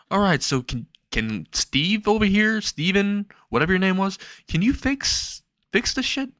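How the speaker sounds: climbing high into a whiny plea; desperate, fed-up begging; exasperated. Acted. Izuku exasperated, begging Steven.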